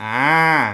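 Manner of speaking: strongly twanged, loud, drawn-out ah sound. Demonstrating the twang heard in a clip: strong twang on ah. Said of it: "it wasn't as twangy as I was doing there".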